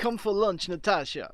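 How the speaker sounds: lightly put-on Russian accent. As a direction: invite her in a hint of a Russian accent. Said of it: "I'm going Russian".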